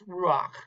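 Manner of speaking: "ruach" with an "a" before the final ch; helping vowel. Shown as a demonstration. Teacher showing a helping vowel, "ruach" said "ru-akh". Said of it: "It's like a helping vowel".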